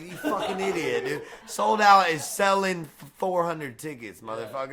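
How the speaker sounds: mock exasperated rant. Retold insulting the promoter.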